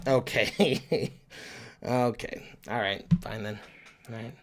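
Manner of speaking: low, soft resignation; deflated. Acted. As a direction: give in quietly after criticism. Chastened after accent is criticised.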